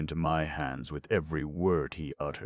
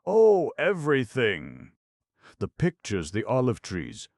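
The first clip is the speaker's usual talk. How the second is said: gushing; 7 semitones higher, 6 dB louder than usual. A narrator's reading. Gushing girl playing innocent.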